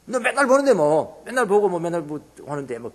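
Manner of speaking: brushing it off, a touch mocking; dismissive mock tone. Imitating family who see you daily, brushing you off.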